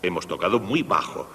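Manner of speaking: muy leaned on, falling tune; stress on muy. Shown as a demonstration. Teacher mocking players who overdo softness, stressing muy. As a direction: punch muy to mock the excess. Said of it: "Donde Haydn indicaba bajo".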